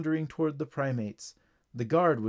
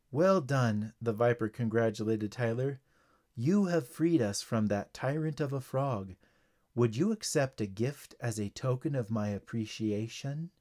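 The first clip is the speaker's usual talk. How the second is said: low viper voice; 4 semitones lower than usual. Acted. Viper speaks.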